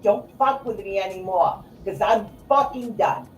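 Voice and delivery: angry outburst. Real, not acted. Host tells Facebook off for taking mother's pictures, angry outburst. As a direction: let the fed-up tirade burst out. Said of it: "I exploded".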